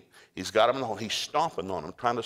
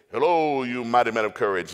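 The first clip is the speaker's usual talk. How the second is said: loud hail, hello pitched up; angel calling out; 5 dB louder than usual. Retold or imitated. Angel hails Gideon a second time, calling out. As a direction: boom a greeting down the hole. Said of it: "the angel says again".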